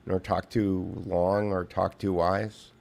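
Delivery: 조용히 천천히 읊는 시 낭송; 차분하게 시를 읊듯이 낮게 낭독; poem recital. Acted.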